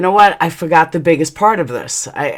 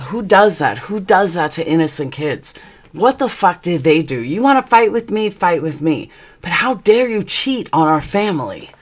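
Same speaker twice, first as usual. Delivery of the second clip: retold indignation; 3 semitones higher than usual. Wife defending innocent kids to husband, indignant. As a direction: challenge in punchy questions, pitch jumping.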